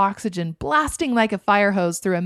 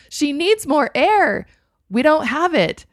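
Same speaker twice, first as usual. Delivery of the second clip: higher, louder, slow alarm; 7 semitones higher, 6 dB louder, slower than usual. A narrator's reading. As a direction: sound the alarm to the crew. Crew alarmed about oxygen.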